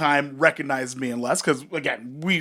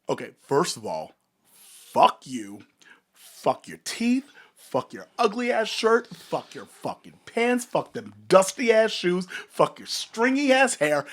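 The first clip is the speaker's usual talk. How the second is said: retold rant; 3 semitones higher than usual. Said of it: "And I went off".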